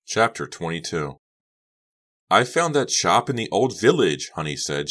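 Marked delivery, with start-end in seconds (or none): 2.3-4.3 loud, high chirpy shout; raised voice at a noisy party; shouting over music. A narrator's reading. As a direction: call out over blaring music. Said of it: "shouting over the music".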